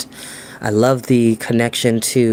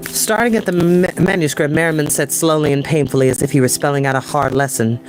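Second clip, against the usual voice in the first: bright, higher storytelling voice; story narration; 4 semitones higher than usual. Acted. Narrator reading the grail chapter to viewers, storytelling. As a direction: read it to an audience, vivid and even. Reads novel aloud.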